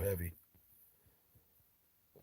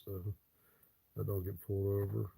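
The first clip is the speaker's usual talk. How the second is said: mock naive answer; 8 dB quieter than usual. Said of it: "Their answer was".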